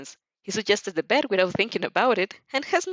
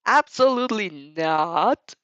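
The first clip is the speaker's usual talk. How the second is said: slow, pressed denial through teeth; slow gritted-teeth lie to a classmate; 5 dB louder, slower than usual. Acted. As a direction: grit your teeth and deny it slowly. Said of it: "You lie through your gritted teeth".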